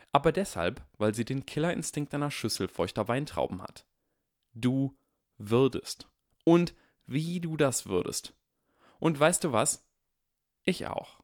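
mock-menacing rise to a hushed reveal; dramatic build. A narrator's reading. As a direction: build it up, then drop to a hush.

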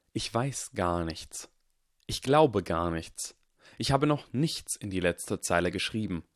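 cloaked stranger calmly answering Draco; mysterious figure. Acted. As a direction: speak each word deliberately, unhurried. Shadowed figure speaks slowly.

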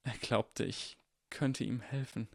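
soft, slow, husky reply; hoarse. Acted. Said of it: "mit heiserer Stimme".

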